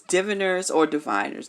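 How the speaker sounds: "diviners" first with short i, then with long i; two pronunciations. Shown as a demonstration. Reader offers both pronunciations, "diviners" short i then long i. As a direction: say "diviners" two ways, DIV-in-ers, then di-VINE-ers. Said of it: "depending on how you say it".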